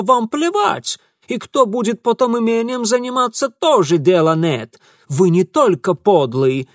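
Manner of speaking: high, loud indignant rant; angry tirade. Acted. Ingvar ranting at Mitya. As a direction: rail at him. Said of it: "Ingvar accusing".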